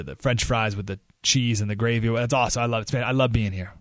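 low, easygoing flattery of hosts; friendly appeal. Acted. Acted friendly speech to Canada.

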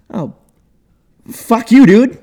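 loud, high, aggressive Boston bro accent; bad Boston accent. Shown as a demonstration. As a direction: shout yourself into a Boston accent. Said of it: "I gotta get, like, into character".

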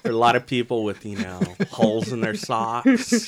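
loud, laughing through the words; amused laughing. Real, not acted. Riffing on a tiny ripper joke with friends, laughing.

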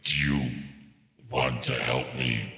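demonic voice. Pretend. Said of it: "demon vampire party boy".

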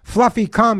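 high call to a dog. Retold or imitated. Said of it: "But think about it".

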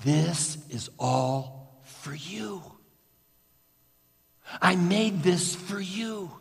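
gently reassure, every word an embrace; loving voice. Acted. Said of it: "you hear a loving voice say to you".

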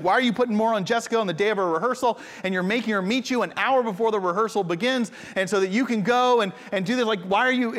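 a touch of mock anger, quick; lightly voiced angry mom, fast; hint of a scolding mother; mildly angry. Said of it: "my mom's angry with him".

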